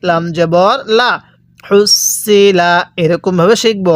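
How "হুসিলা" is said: হুসিলা with the s doubled, slowly drawn out; হুসিলা recited slowly, s pronounced twice; doubled consonant. Shown as a demonstration. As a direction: hold the s in হুসিলা across both syllables. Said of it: "এই সদটা আমরা দুইবার উচ্চারণ করব".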